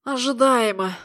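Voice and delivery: nasal from broken nose. Acted. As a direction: say it through a blocked nose. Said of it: "загнусавил".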